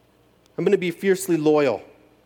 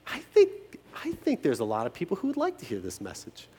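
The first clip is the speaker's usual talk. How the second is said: sarcastic thought; 5 dB quieter than usual. Retold or imitated. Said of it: "all I'm thinking is".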